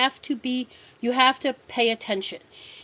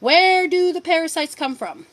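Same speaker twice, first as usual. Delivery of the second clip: calling out to viewers; 5 semitones higher, 4 dB louder than usual. Real, not acted. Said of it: "Come on, audience participation".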